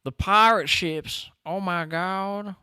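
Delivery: high, drawn-out excited cry; gone crazy. Real, not acted. Streamer seeing the pirate ships appear, going crazy. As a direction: stretch it out high in a burst of excitement. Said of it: "went crazy for his half second there".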